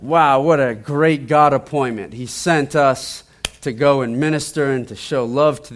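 an awed reaction, replayed loudly; retold amazement. Retelling the group's amazed reaction.

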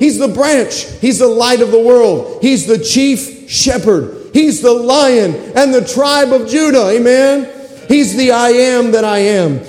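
rhythmic preaching litany, each title punched. Acted. Preacher to the congregation, rhythmic litany. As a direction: preach the names of Christ one after another.

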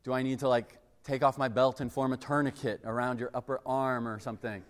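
lightly played calm medic dad; calmly assess a child's tiny scrape; dad triaging. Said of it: "I would, like, triage them".

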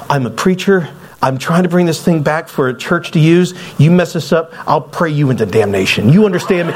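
preacher trying to scare someone; retold threat. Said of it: "I'm trying to scare this guy".

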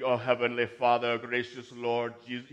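loud mock-pious church praying; Southern Baptist prayer. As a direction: imitate a showy Southern preacher addressing heaven. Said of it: "Southern Baptist".

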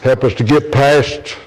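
earnest pulpit prayer, rising in pitch; closing prayer. Real, not acted. Pastor prays over the standing congregation, earnest and fervent. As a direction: pray over the congregation with fervour.

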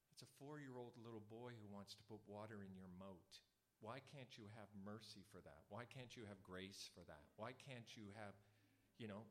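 soft, low pleading; gentle plea. Retold or imitated. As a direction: gently plead with her to have mercy. Pleading with the girl.

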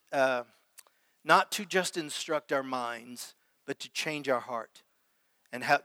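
softly spoken, earnest prayer. Real, not acted. Preacher asking the Lord to change hearts, softening prayer.

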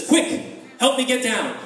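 a touch of stuck-leopard urgency; urgent plea. Acted. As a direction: demand to be rescued at once. Stuck leopard asks for help.

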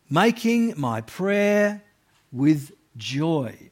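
joyful tone. Shown as a demonstration. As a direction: let the joy be heard. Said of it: "you can't really miss the tone".

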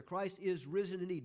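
IS stressed firmly; emphatic. Shown as a demonstration. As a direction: repeat it with weight on "is". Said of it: "that emphasis there".

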